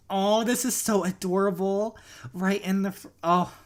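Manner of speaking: high, loud gush of delight; swooning over the couple. Real, not acted. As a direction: squeal at the cute proposal. Gushing at proposal scene.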